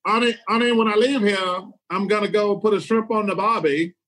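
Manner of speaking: put-on joking stab at an Australian accent; attempted Australian accent. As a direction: try a rough Aussie accent. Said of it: "what would your Australian accent sound like".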